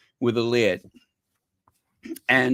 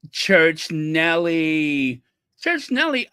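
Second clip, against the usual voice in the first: calling out; 3 semitones higher, slower than usual. Real, not acted. Calling out a viewer.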